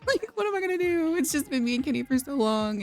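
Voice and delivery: high-pitched pretend tearful wail; mock crying. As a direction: whine it like a hammed-up weepy mother. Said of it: "she's crying".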